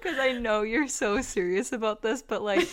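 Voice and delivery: talking through laughter; can't keep it together. Real, not acted. Cohost explains why she can't stop, laughing. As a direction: explain while fighting real giggles. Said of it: "I just can't keep it together".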